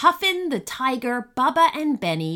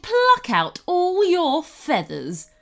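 high-pitched, gleeful villain threat; threatening goblin queen; 10 semitones higher, 4 dB louder than usual. A narrator's reading. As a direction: relish the threat as an evil queen.

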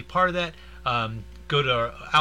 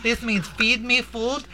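laughing, acting out horse signs; 7 semitones higher than usual. Imitating horse sign language.

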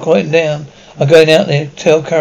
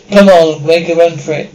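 urgent shout; 3 dB louder than usual. Acted. Urging escape.

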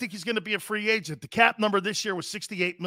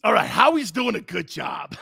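louder grudging praise; shouted grudging praise; forced shout; 3 semitones higher, 4 dB louder than usual. Pretend. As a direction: blurt it out against your will. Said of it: "Say it".

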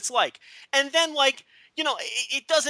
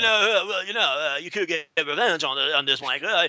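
singer-style cabbie; 3 semitones lower than usual. Retold or imitated. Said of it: "then a singer's always like".

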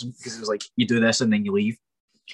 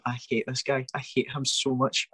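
softer, under his breath; muttering to himself; 2 semitones higher, 5 dB quieter than usual. Retold or imitated. Sitting beside his friend, quietly grumbling he hates him. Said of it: "left there and going".

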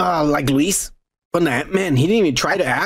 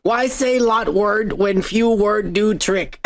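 Kevin; 3 semitones higher, slower than usual. Acted. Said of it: "Kevin, when he was like".

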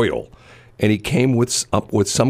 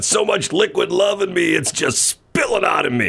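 high-pitched, hammed-up drunk; drunk driver; 9 semitones higher than usual. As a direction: gush and plead like a tipsy driver. Plays drunk driver pulled over.

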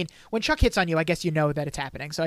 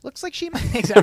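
giddy gossip; 6 semitones higher, 7 dB louder than usual. Real, not acted. Laughing while gossiping.

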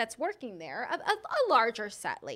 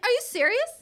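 high, louder incredulous question; can't-believe-it exclamation, acted out; retold disbelief; 11 semitones higher, 5 dB louder than usual. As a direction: pitch it up in disbelief. Retelling her disbelief at seeing worker.

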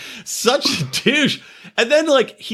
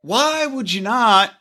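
slow, deliberate, mildly stern father; exasperated dad; 5 semitones higher, slower than usual. Retold or imitated. Dad scolds his son to take a test first, slow and stern. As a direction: spell it out slowly like a fed-up dad. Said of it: "he's like".

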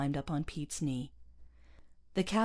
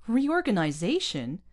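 high, loud disbelief; incredulous outburst; 8 semitones higher, 7 dB louder than usual. A narrator's reading. Pete reacts to news of the board's reorganization, incredulous. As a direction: protest in disbelief, pitch jumping up.

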